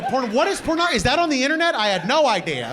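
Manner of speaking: high, wide-eyed naive voice; feigned innocence. Pretend. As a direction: play dumb about the internet. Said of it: "You go".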